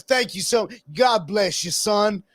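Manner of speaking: high, kindly blessing; sweet preacher. Retold or imitated. Preacher blesses the Klansman before hanging up, high kindly voice. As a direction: bless him like a grateful grandpa. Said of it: "he's like".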